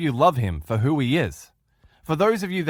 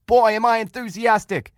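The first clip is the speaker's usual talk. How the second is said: put-on high, loud group yell of "Boy, am I enthusiastic"; the group finally screams the slogan on the last try; screaming with enthusiasm; 10 semitones higher, 5 dB louder than usual. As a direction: shout it as if you mean it. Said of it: "They were screaming".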